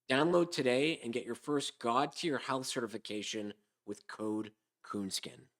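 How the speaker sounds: smooth commercial voice; ad read. Acted. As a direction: sell it like a slick ad. Reads sponsor ad.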